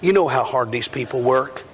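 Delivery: lightly voiced humble prayer; retold prayer. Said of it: "So we just stopped, and I said".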